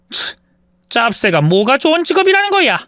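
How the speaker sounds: mocking mother. A narrator's reading. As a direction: sneer at the job with contempt.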